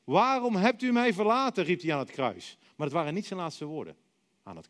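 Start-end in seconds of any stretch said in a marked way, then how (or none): 0.0-1.6 anguished cry, much higher and louder; desperate outcry to God. Retold or imitated. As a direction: shout to God from the cross in despair. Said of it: "Hij schreeuwde het uit".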